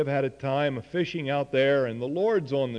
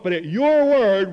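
"but at your word" higher and louder, eager; enthusiastic; 4 semitones higher, 7 dB louder than usual. Retold or imitated. Eager Peter answering the Lord, keen and loud. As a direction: say it as if you can't wait to try. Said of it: "It's enthusiasm".

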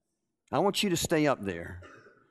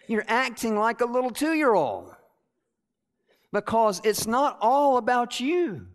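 high, raised preaching voice; forceful rebuke; 7 semitones higher, 4 dB louder than usual. Retold or imitated. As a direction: drive the scolding home emphatically. Retells the Lord's emphatic rebuke.

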